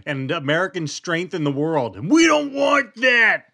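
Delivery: mock a Southern rooster cartoon, building to a loud high And we don't want that; Foghorn Leghorn accent. Mocking a voter's complaint, in Foghorn Leghorn Southern accent. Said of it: "foghorn leghorn accent".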